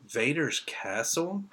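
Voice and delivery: slow, drawn-out question with a rising end; retold startled outburst. Recalling his reaction to Vader's castle, incredulous. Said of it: "kind of loud".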